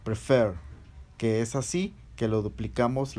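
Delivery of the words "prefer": prefer with the last syllable stronger; "prefer" stressed on its second syllable. Shown as a demonstration. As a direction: say "prefer", leaning on "fer". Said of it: "la última sílaba".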